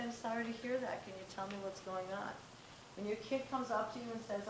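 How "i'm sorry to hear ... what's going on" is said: soft and caring, sorry to hear that; gentle empathy. Shown as a demonstration. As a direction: comfort the upset kid gently. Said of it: "We need to say".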